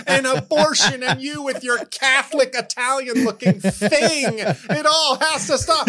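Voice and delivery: high-pitched, hammed-up movie tirade; mock dramatic outburst. Comic parodies a film quarrel with producer, melodramatic outburst. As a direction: rant in high theatrical anguish.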